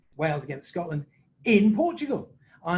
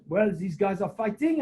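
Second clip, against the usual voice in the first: retelling the French referee's explanation, slightly higher; lightly voiced Didier; 4 semitones higher than usual. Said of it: "Didier goes".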